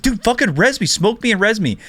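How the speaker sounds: mock a whiny teammate begging for help. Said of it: "He is very whiny".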